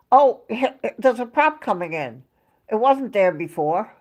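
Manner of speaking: casual retold astonishment; mild imitated surprise. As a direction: lightly mimic him noticing the plane. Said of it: "That's the way he said it".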